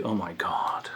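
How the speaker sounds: breathless whispered aside; whispered oh my God. Real, not acted. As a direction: whisper it in giddy disbelief. Aside after gory description.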